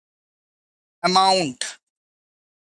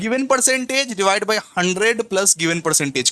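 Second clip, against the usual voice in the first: slow dictation; much slower than usual. Shown as a demonstration. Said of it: "on cost अगर दिया रहे".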